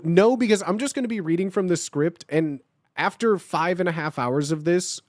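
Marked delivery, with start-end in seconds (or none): none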